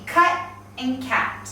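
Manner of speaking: "cut and cat", uh vowel then short A; careful minimal pair "cut and cat"; vowel contrast. Shown as a demonstration. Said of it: "these sound very different".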